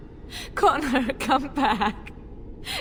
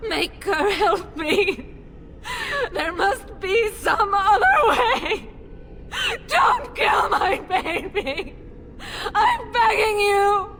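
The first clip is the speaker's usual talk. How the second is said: sobbing plea; 8 semitones higher than usual. Acted. Mother pleading for her possessed son, sobbing shout. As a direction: beg through sobs. Mother begging to save child.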